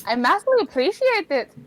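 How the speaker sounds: put-on Irish accent. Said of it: "Did she change accents?".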